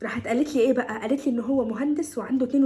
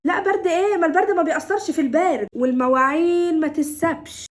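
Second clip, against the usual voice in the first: louder, emphatic brush-off; scolding dismissal; 4 semitones higher, 5 dB louder than usual. Acted. Mother ordering daughter to chores, scolding dismissal. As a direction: dismiss the excuse loudly.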